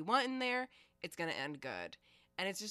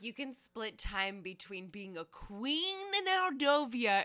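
mock prince; 3 semitones higher, 3 dB louder, slower than usual. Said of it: "He's like".

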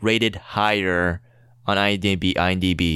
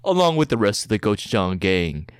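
movie trailer voice; 4 semitones lower than usual. Acted. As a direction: read it like an epic film trailer. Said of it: "read it in a movie trailer voice".

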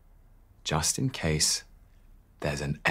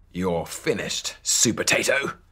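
villain shriek, mildly done; 4 dB louder than usual. Acted. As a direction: gloat it like a nasty little pea. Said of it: "he shrieked".

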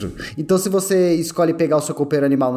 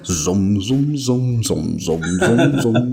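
hummingbird buzz; 5 semitones lower, slower than usual. Pretend. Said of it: "Imagina o beija-flor lá no ouvido".

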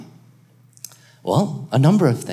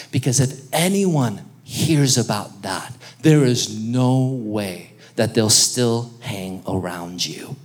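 inner voice; 4 semitones lower than usual. Acted. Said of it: "that little voice, that inner voice comes back up to you".

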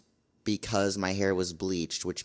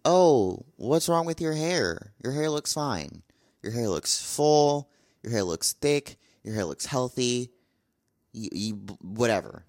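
mock viewer voice; 3 semitones higher than usual. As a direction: play a sceptical viewer brushing off the hair complaint. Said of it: "You're probably looking at this like".

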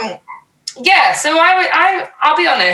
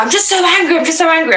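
imitating the girl; 9 semitones higher, much faster than usual. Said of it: "she was like".

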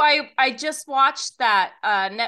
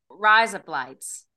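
slow, attempted Australian accent; 3 semitones lower, slower than usual. Shown as a demonstration. Testing the phrase on Australian co-host, Australian accent. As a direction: run the words together in mock Australian. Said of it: "Do I sound Australian?".

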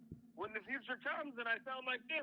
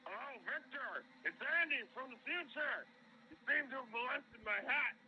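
voicemail voice. Acted. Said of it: "I left this on Victor's phone".

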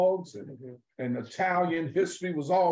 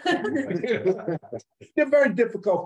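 laughing; 4 dB louder than usual. Real, not acted. Laughing after mocking authors.

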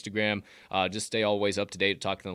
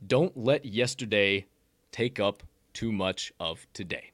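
quote reading; 2 semitones lower, slower than usual. Acted. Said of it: "quote of the day".

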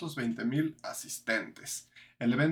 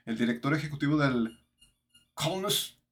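German accent Spanish. Shown as a demonstration. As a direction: try the name in a German accent. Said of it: "ok, es con acento alemán".

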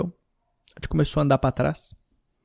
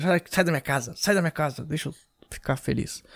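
quiet; 6 dB quieter than usual. Acted. Kid mocking visitors from bedroom.

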